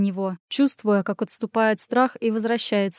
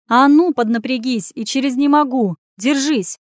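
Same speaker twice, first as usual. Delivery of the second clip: louder, insistent push to keep going; rally someone to hold on; urging on; 4 semitones higher, 5 dB louder than usual. Acted. Urging the wounded man on.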